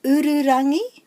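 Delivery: "Ururangi" high and loud, strong first U; stress on first syllable. Shown as a demonstration. Teacher introducing the next star, emphasis on the U starting "Ururangi". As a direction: hit the opening U of "Ururangi". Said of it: "put the emphasis on the first syllable".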